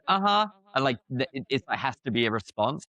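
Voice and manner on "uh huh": imitated American. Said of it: "or they go".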